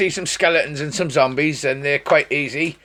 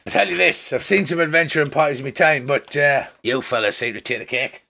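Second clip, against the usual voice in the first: lightly raised innkeeper, quick in the middle; a touch of an amused innkeeper. Acted. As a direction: tease the party good-naturedly. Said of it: "He says".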